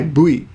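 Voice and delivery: "bui" for the letter V, starting on a b; "bui" with b in place of v; Japanese pronunciation. Shown as a demonstration. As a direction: say "bui" as boo-ee. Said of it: "when you pronounce it in Japanese".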